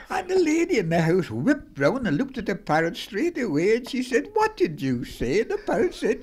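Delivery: high, laughing through the words; can barely speak for laughing; laughing while talking. Real, not acted.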